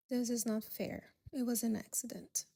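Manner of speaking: a soft, defeated mumble; mumbling. Acted. Guest protesting to the host, quietly mumbled. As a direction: say it under your breath, beaten. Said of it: "end up mumbling".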